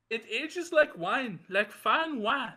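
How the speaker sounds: mock French accent, slow and drawn out. Bantering co-host praising aged wine, French accent. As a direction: savour it slowly in a French accent. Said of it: "I like the French voice".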